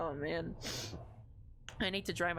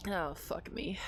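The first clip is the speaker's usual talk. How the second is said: whispered, worn out by tears; a breathless whisper after crying; 3 dB quieter, slower than usual. Real, not acted.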